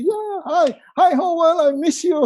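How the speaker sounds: high, bright mock phone greeting; cheery call. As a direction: greet your friend like you're thrilled. Acting a friendly call.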